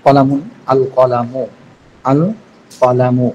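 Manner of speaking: আল কলামু said very slowly and clearly; slow demo. Shown as a demonstration. Teacher slowly models আল কলামু for students. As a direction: model the word slowly for learners. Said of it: "এরকম ভাবে আলিফ লাম যোগ করলে হয়".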